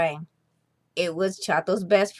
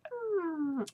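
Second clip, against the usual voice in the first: hungry mm; 9 semitones higher, 10 dB quieter than usual. Acted. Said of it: "raked his tongue over his lips".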